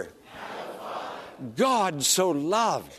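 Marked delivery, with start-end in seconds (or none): 0.0-1.5 distant murmured response; quiet congregational reply; congregation answering softly. Real, not acted. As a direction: voices echoing the words back. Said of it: "Now say".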